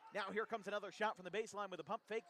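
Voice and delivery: auctioneer. Real, not acted. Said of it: "I was sounding like an auctioneer".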